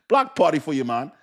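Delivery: lightly put-on Jamaican lilt; mock Jamaican accent. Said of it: "that man tell me Jamaican".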